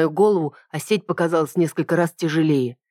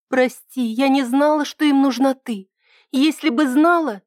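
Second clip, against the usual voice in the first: apologetic; 9 semitones higher than usual. A narrator's reading. Ida apologizes guiltily.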